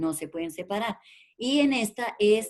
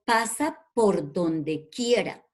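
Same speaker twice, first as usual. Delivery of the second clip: example sentence; slower than usual. Shown as a demonstration. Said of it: "yo digo una oración, digo".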